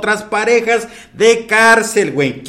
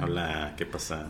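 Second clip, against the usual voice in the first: much lower, much softer pretend girlfriend; mock girlfriend voice; 12 semitones lower, 15 dB quieter than usual. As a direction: answer the suitor low and hushed. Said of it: "yo soy Juana". (Juana fingida, grave y muy suave)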